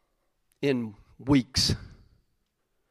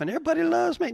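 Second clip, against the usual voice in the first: mock smug boast; 14 semitones higher, much faster than usual. Mocking the self-satisfied crowd.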